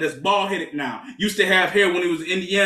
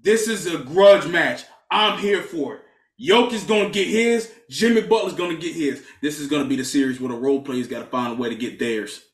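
promo hype; 2 semitones lower than usual. Acted. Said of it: "Are we cutting promos right now?".

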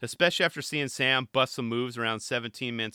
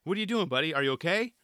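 mock alarm; 6 semitones higher than usual. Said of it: "you almost had to shake Sam".

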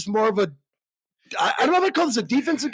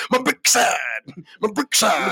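mildly hammed-up cartoon catchphrase; lightly done South Park bit; slower than usual. Shown as a demonstration. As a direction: repeat it in a slight comic voice. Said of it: "That's what I was kinda going for".

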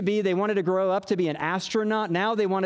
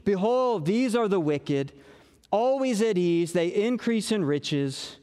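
self-pitying read. Shown as a demonstration. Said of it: "You can hear the self-pity in his voice".

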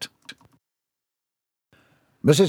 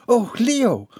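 tag; 11 semitones higher than usual. A narrator's reading. Distraught wife pleading with husband.

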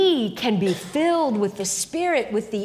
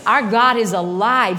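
exhorting shout; 4 semitones higher, 5 dB louder than usual. Real, not acted. Preacher exhorting the congregation.

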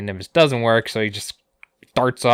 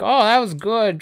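Yamcha voice; 12 semitones higher, 4 dB louder than usual. Retold or imitated.

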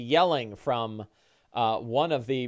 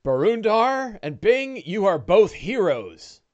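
grateful rancher; 6 semitones higher than usual. Acted. Rescued man praising.

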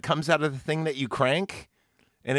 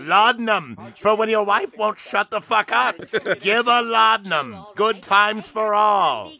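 a hint of a vintage radio pitchman; old radio announcer; 4 semitones higher, 4 dB louder than usual. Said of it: "Old-timey radio?".

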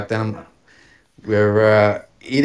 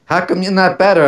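retold scolding, higher pitch; mock yelling; 8 semitones higher, 4 dB louder, faster than usual. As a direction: imitate an exasperated yell, pitched up. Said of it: "she starts yelling at me".

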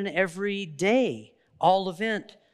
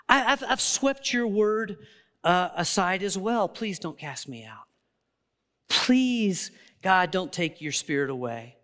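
close to tears. Real, not acted. Preacher voicing David's plea to God, close to tears. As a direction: pray it as if about to tear up. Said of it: "I even started to tear up as I said that".

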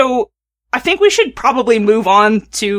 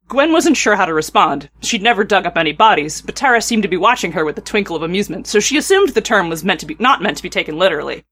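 measured read-aloud storytelling; story narration; 2 semitones lower than usual. A narrator's reading. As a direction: read the tale evenly, phrase by phrase.

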